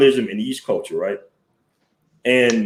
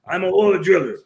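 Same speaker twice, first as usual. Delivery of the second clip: much higher, put-on voice of a hearty northern dude; Irish-sounding Canadian guy; 6 semitones higher than usual. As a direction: mimic the Canadian with an Irish lilt. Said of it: "But he talks like this".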